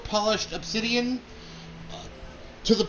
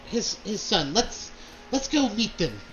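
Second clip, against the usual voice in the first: Lady Dahlia; 2 semitones higher than usual. Acted. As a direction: gush like an eager court lady. GM voices Lady Dahlia excited.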